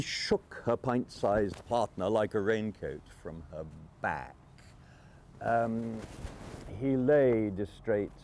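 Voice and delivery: lively reading of comic verse; poem recital. Acted. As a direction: recite it with relish. Recites his fly poem.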